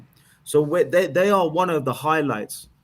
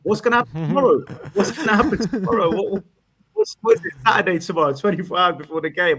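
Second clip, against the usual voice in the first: high-pitched, laughing mock panic, louder; 6 semitones higher, 4 dB louder than usual. Caller mocking panicking Spurs fans, laughing high. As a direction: ham up the fans' panic through laughter. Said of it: "we're sitting here going".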